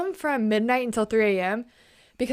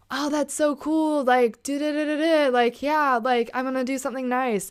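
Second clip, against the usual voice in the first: imagined enthusiasm; 3 semitones higher than usual. Retold or imitated. Imagines people joining the kindness chain.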